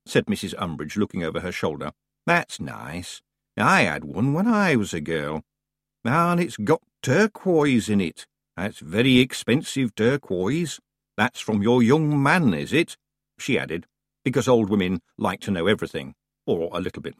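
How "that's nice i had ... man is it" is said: put-on slow, prying old lady voice; pry into her business, gently; nosy old woman. Umbridge nosy about the parcel.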